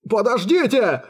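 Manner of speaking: high, panicked wail; terrified captive's cry; howled. A narrator's reading. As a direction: wail for them to stop. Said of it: "взвыл пленник".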